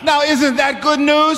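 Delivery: rousing preaching. Real, not acted. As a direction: rouse the congregation with the question. Preacher rouses the congregation.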